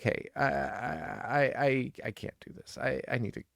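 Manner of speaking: halting, hushed stammer of fear; mock terrified whisper, stumbling over I; panicked whisper. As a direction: whisper it like you're trapped and scared. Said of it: "You gotta be like".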